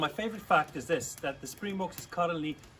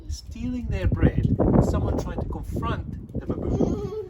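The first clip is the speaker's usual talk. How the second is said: excited; 9 semitones higher, 10 dB louder, slower than usual. Retold or imitated. Dramatic baboon story.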